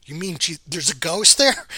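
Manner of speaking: high and loud disbelief; incredulous. Retold or imitated. Joe asking Carlos in high, loud disbelief. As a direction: blurt out the realization, up high. Joe realizes it's a ghost.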